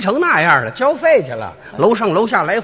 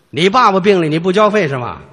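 mock angry doctor; 2 semitones lower, 3 dB louder than usual. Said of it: "大夫跟我急了".

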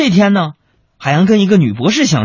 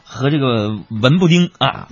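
ordinary delivery

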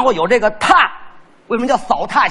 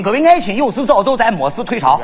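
put-on Shaanxi accent. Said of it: "皇帝登基坐殿都这口音".

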